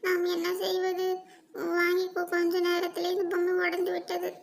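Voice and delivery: a touch of dismay, calling for mother; child grumbling over a broken toy; lightly voiced upset child.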